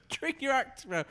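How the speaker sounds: dad voice. Acted. Echoing the dad line.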